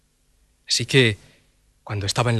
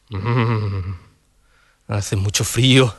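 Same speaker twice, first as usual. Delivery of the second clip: emperor voice; 6 semitones lower, much slower than usual. Acted. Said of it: "el emperador se dijo".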